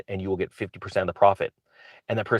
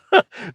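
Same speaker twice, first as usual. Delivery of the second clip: high burst of laughter; 13 semitones higher, 5 dB louder than usual. Real, not acted. Laughs at own joke.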